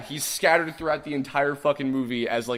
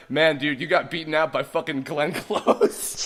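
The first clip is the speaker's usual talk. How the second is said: teasing joke; 4 semitones higher, 5 dB louder, slower than usual. Retold or imitated. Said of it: "the joke of the night was like".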